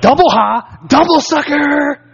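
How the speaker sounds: singsong schoolyard jeer, playful not angry; mocking taunt. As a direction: rub it in like a cocky teenager. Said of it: "And I was like".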